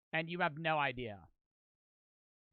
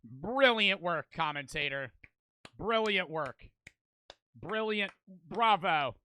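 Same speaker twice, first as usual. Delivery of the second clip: dry mock applause, slowed on brilliant; deadpan sarcastic bravo; sarcastic praise; 3 dB louder than usual. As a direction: congratulate him like he said nothing new. Mocking the commentator's obvious conclusion.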